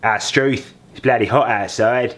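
second go at a mock Australian accent; retry of the Australian line, "Struth" rising. Shown as a demonstration. Dad retrying his Australian accent after a miss. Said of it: "No, that wasn't right. Hang on".

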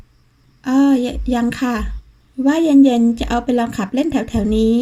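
halting, tripping over the first words; flustered, catching herself mid-word; stammering. Acted. Caught off guard by his call, she answers stammering. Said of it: "ด้วยน้ำเสียงตะกุกตะกัก".

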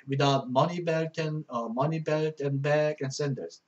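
each English word read slowly and clearly; slow verse reading. Shown as a demonstration. Teacher reading a verse to Korean students, slow and clear.

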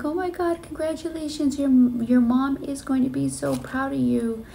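high-pitched retold excitement; high, emotional mock cheer; gushing congratulations. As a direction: gush to a friend, acting it out.

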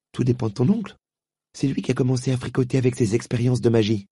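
put-on girl blaming the uncle; lightly voiced girl. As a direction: state it like a sensible girl. Polly voiced.

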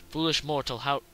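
booming demon lord. Acted. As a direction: boom it out like a demon. Repeats the line with more force.

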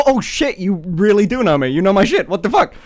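excited quote. Retold or imitated. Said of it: "And I went".

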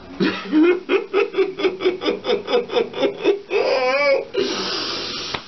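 high cackle ending in a wail; uncontrollable laughing. Real, not acted. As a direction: lose it completely in high laughter. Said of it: "this video's going to the left".

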